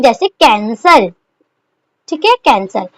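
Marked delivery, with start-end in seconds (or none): 0.3-1.1 slow example word. Shown as a demonstration. Shorthand teacher giving her students the example कैंसल, slow and careful. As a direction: say कैंसल slowly, each syllable given its space. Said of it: "मैं आपको एक word बता देती हूँ".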